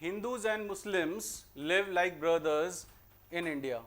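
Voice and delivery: very slow dictation pace; slow sentence read. Shown as a demonstration. Teacher to class, reading the test sentence slowly. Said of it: "reads the test sentence".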